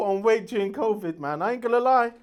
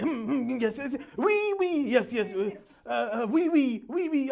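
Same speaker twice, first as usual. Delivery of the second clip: stuttering, repetitive hemming and hawing; Boris Johnson; slower than usual. Retold or imitated. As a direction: sputter and get stuck on one word. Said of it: "He's like".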